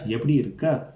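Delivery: "Yepti irukka" asked, voice lifting on irukka; questioning tone. Shown as a demonstration. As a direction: put a question tune on "irukka". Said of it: "get that questioning tone".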